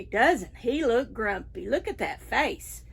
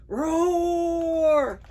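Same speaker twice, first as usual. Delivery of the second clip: put-on higher playful roar leading the kids; pretend lion roar; 6 semitones higher, 4 dB louder than usual. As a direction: roar along with the children. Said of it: "Can you roar with me?".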